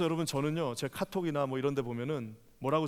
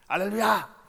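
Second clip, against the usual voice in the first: pastor's wife greeting; 5 semitones higher, 4 dB louder, slower than usual. Retold or imitated. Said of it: "우리 사모님 뭐라 그래요?".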